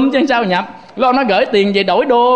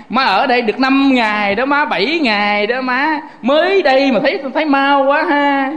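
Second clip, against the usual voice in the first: lightly acted hinting, a little higher; tactful hint; 3 semitones higher than usual. Grown child hinting that mother's stay is over, tactful hinting. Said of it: "Nên nhắc khéo mẹ".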